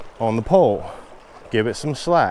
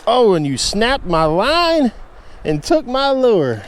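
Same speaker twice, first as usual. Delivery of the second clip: high, loud shock at the snapped line; outraged dismay; 9 semitones higher, 4 dB louder than usual. Real, not acted. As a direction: cry out as the fish breaks off. Line snaps, fish lost.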